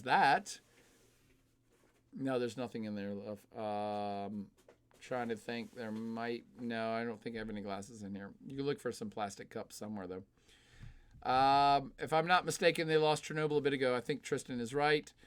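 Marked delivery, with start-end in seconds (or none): 2.2-10.2 much softer, turned away to someone in the room; hushed side remark to his partner; quiet aside. Real, not acted. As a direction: drop the voice for a private word off-mic.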